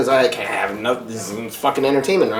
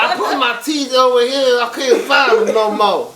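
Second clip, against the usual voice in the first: mimicking roommate; 11 semitones higher, 3 dB louder than usual. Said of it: "He's like".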